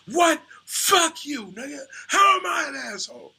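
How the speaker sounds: hammed-up furious outburst with a cry in it; furious yell. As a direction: yell back, offended and indignant. Charlie furious at friend.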